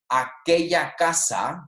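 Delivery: slow, clearly set-out Spanish example; slow model reading. Shown as a demonstration. Teacher giving students an example of a far-off house, slow model reading. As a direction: say it slowly for learners.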